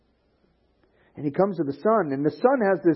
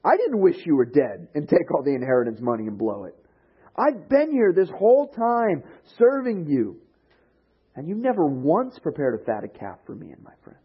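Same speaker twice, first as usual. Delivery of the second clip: put-on whiny raised protest, jealous older brother; jealous complaint; 5 semitones higher, 3 dB louder than usual. Older brother complaining to his father, mock jealous whine. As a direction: complain higher and louder, like a sulky sibling. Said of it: "he gets all jealous".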